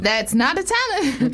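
slowed-down catchphrase voice; show catchphrase. Acted. Answering her co-host with the show's negative verdict in a catchphrase voice. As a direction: turn the slogan into a slow verdict. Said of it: "That's a catchword".

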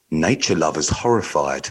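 slow, low seductive read; sexy voice. Pretend. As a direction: purr the headline slowly. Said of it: "in sexy voice as well".

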